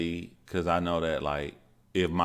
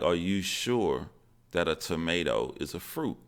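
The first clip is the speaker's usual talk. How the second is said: upset questioning. Retold or imitated. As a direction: lightly imitate an upset child double-checking. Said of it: "I was so upset at my teacher".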